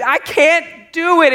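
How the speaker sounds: put-on high, loud, drawn-out toddler wail; imitated helpless little-kid yell; toddler yelling for help. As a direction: mimic a small child yelling down from up high. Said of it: "he yells out to me".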